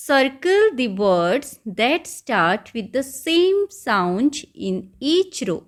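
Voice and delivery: very slow, each word spaced out; slow question reading. Shown as a demonstration. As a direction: read the question aloud for young learners. Teacher reads instruction.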